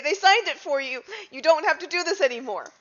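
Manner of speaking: a hint of a Chinese accent on "signed"; mock Chinese accent. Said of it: "in an accent to Chinese".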